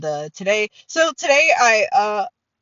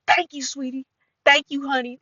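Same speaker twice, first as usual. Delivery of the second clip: put-on higher, thick West Side Cincinnati accent; 4 semitones higher, 3 dB quieter than usual. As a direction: imitate her hard Cincinnati accent. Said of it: "West Side of Cincinnati accent".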